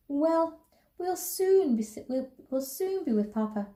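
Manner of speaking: high-pitched, glad mother; happy relief. A narrator's reading. Mother promising children they will see Papa, happily relieved. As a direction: lift the voice with happy anticipation.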